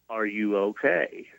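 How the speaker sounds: slow, gentle check-in on a patient; very calm. Retold or imitated. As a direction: ask it calmly and slowly, imitating the nurse. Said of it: "real, very calmly".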